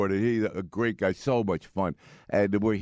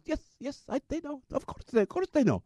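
bad Muslim accent; 14 semitones higher than usual. Driver reassuring passenger about the wives, in a mock Pakistani accent. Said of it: "my really bad Muslim accent".

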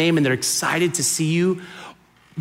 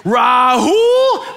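loud, high, drawn-out mock yell; scolding mom yell; 6 semitones higher, 5 dB louder than usual. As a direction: call out like a mother whose child is in trouble. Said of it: "only when I was in trouble".

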